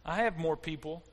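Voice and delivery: calming God. Acted. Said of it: "God says".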